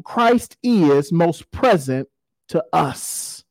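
measured, deliberate reading with weighted phrase endings; solemn quote reading. Real, not acted. Preacher reading a book passage on God in darkness, solemn measured reading. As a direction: read it out to a congregation, letting key words stretch.

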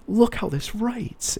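very high and slow, gushing; hammed-up newbie admiring a pen; mock rookie pitch. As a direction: drag it out like a naive beginner.

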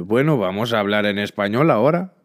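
Spanish. Shown as a demonstration. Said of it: "Posso-vos dizer".

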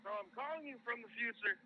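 voicemail voice. Acted. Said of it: "I left this on Victor's phone".

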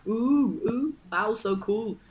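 lightly voiced awestruck onlookers; high cooing of admiration; impressed crowd. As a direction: coo like a wowed crowd. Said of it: "And everybody's like".

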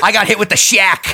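loud, laughing announcement; laughing as he admits it; laughing exclaim. Real, not acted. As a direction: blurt it out half laughing. Builds up the punchline twice.

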